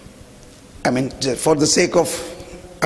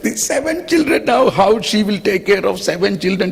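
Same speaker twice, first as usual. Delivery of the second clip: mock doubter; 4 semitones higher than usual. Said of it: "particularly Germans will think".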